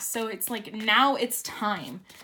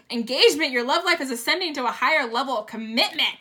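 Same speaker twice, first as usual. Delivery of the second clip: excited reading; 3 semitones higher, 6 dB louder, faster than usual. Real, not acted.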